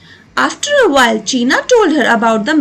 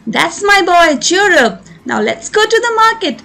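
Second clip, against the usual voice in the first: said warmly; 4 semitones higher, much slower than usual. Acted. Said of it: "Kamala said warmly".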